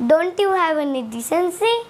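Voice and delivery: each word of Don't you have any decency spaced out slowly; slow teaching model sentence; slow English demo. Shown as a demonstration. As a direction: spell it out slowly for learners. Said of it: "এটাকে ইংলিশে কেমনি করে বলবে".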